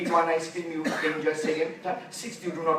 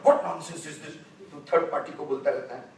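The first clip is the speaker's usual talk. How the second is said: angry husband; 2 semitones lower, 3 dB louder, faster than usual. Retold or imitated. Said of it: "So he got angry".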